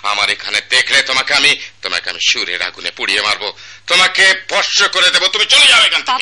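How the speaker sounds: angry dismissal. Acted. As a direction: drive him out, building to a yell. Master angrily drives disciple away. (ক্রুদ্ধ চিৎকারে তাড়িয়ে দেওয়া)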